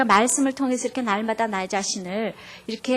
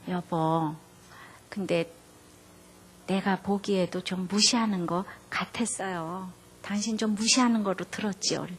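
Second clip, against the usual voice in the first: tender agreement; 4 semitones lower than usual. Retold or imitated. Wife gently siding with her offended husband, tender. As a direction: soothe him by taking his side.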